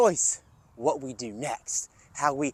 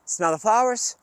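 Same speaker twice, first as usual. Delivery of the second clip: calm breathing guide; 4 semitones higher than usual. Shown as a demonstration. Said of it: "do one more with me".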